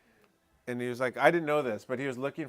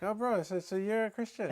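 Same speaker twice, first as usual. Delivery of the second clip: much higher, delighted surprise; surprised question; 9 semitones higher than usual. Retold or imitated. Asking the stranger if he is Christian, surprised. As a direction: pitch it up in glad surprise.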